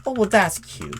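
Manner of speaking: high, loud mock-amused coo; playful sarcastic coo; teasing. Real, not acted. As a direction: tease them like it's adorable. Teasing reaction to guest's answer.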